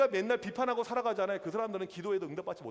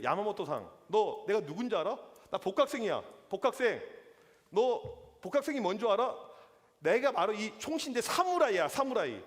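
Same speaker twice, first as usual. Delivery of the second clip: mock angry swagger; 3 dB louder than usual. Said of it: "너무 화가 나가지고".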